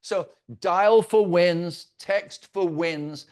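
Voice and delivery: slow, each word spaced out; leaning hard on "for wins"; stress on wins. Shown as a demonstration. Boss repeating his slogan to agents, slow and deliberate. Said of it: "I imagine winning".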